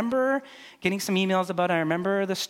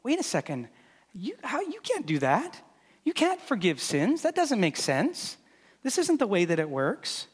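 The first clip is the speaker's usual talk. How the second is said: crowd's indignant disbelief; 5 semitones higher than usual. Retold or imitated. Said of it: "people standing there saying".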